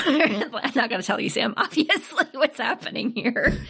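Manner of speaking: giggling through the words; teasing, laughing as she speaks. Real, not acted. Laughing while teasing co-host.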